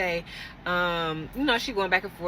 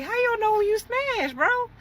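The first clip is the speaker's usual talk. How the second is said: laughing disbelief. Retold or imitated. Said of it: "So we laughed it off".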